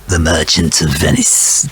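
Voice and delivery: hammed-up Fagin; Fagin impression. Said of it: "that's more like Fagin, really".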